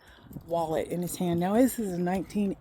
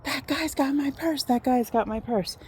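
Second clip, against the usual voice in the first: retold scream; 5 semitones higher than usual. Mom calls out about the purse thief, mild mock scream. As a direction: imitate mom's scream without the volume. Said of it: "I hear my mom screaming".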